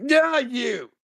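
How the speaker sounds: pointing someone out; calling out. Acted. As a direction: shout out to someone in the crowd. Calling out to audience member.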